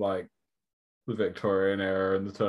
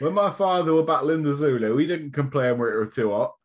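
mock manager; 5 semitones higher, 3 dB louder than usual. Mock manager speech continues.

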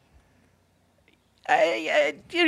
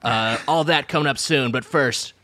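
light podcast-host parody, rattling off the rundown; Bill Simmons; 3 semitones lower than usual. Acted. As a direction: lightly mimic a sports podcaster's intro. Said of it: "start over again just with your Simmons bullshit".

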